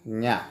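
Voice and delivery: "Nha" with one palatal n, said alone; sound of NH. Shown as a demonstration. Teacher echoing the last syllable of campanha, "Nha" alone. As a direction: repeat "Nha" as an isolated syllable. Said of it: "está fazendo Nha".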